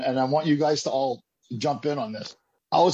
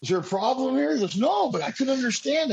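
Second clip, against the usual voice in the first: smug teasing; 6 semitones higher than usual. Retold or imitated. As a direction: rub it in, playfully. Smug retort to the friend.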